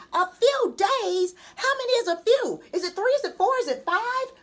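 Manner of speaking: high, loud, rapid-fire questions; rattled off. A narrator's reading. Boy pestering mom about days, high and rapid. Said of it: "McKinley rattled off".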